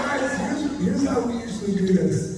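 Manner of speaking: raspy, lost voice; strained and hoarse throughout. Real, not acted. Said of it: "he lost his voice".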